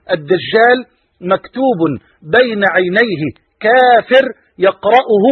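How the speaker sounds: slowly again, so they catch every word; slow repeated recitation. Acted. Preacher repeating the hadith slowly so the audience follows.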